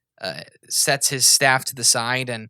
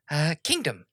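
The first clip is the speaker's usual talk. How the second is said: whispered end of the question; 3 semitones higher, 3 dB quieter than usual. Acted. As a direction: drop to a whisper on the last word. King trails off.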